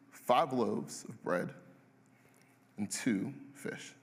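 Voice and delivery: slow, drawn-out and hesitant; slow hesitant report. Retold or imitated. Disciples telling Jesus their lunch, slow and hesitant. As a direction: spell out the meager lunch slowly. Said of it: "They go".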